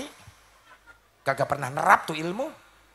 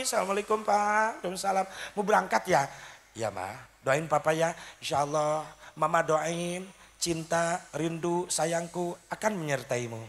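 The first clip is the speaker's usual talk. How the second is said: soft, sweet send-off; wife gently seeing husband off at the door; tender farewell; 5 dB quieter than usual. Acted. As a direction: murmur it lovingly at the door.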